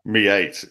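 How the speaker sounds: "mate" broken into "me eight"; echoed odd "mate". Retold or imitated. Co-host puzzled by the boy's word, "mate" echoed as "me eight". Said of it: "Why does he say me eight?".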